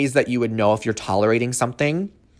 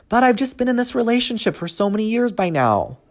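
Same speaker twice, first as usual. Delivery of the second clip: squeaky, very high-pitched put-on voice; 9 semitones higher than usual. Imitating clients who tolerate their situation, in a high-pitched voice. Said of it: "Here's that high-pitched voice".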